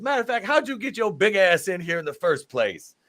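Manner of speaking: mock a fan; playful imitation of a heel; mock trash talk. Quoting Ernest Miller insulting fans.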